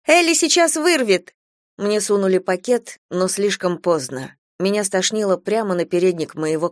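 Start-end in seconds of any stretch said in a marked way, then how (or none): 0.1-1.3 high, loud and urgent; alarmed call. A narrator's reading. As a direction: warn the teacher in a hurry. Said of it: "позвала одна из девочек".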